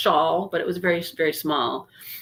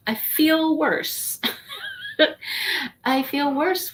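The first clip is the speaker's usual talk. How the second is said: slow, whiny mock complaint; mock whine; 7 semitones higher, slower than usual. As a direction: whine it like a sulky child. Complaining about feeling ill.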